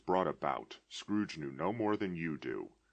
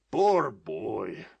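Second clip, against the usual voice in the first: loud, emotional cry of pity; a touch of tearful excitement; tearful exclamation; 4 semitones higher, 8 dB louder than usual. A narrator's reading. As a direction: call out, half laughing half weeping. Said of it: "between laughing and crying".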